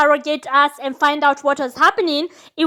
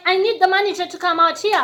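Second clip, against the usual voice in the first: entitled demand, a touch higher; Karen; 4 semitones higher than usual. Retold or imitated. To the waitress, mock Karen demand for the manager. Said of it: "I was Karen".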